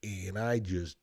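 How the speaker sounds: usual speaking voice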